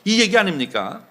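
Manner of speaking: normal talking voice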